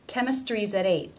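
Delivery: AT tapped into EIGHT, EIGHT ending on a stop; linked T demonstration. Shown as a demonstration. Teacher putting the sentence together, stop T ending EIGHT. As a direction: release the T in CHEMISTRY'S, flap AT, stop EIGHT. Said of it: "It's a stop".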